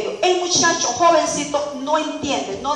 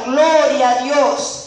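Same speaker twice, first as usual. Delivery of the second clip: slow, drawn-out "Gloria a Dios", louder; joyful praise; 4 dB louder, much slower than usual. Retold or imitated. Aunt rejoicing that her nephew will become a pastor, slow and louder. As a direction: savour each word of praise.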